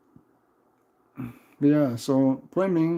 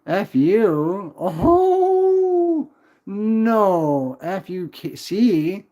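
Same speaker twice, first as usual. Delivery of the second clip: louder, much higher mock-shocked oh no; 7 semitones higher, 4 dB louder, much slower than usual. Real, not acted. Streamer mock-shocked at a viewer's curse, loud and high. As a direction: gasp up into a squeak of shock.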